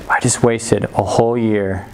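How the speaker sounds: heavy and defeated, dragging the words; weight-of-the-world dejection. Acted. Kid walking home regrets a wasted year, dejected. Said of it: "the weight of the world is on my shoulders".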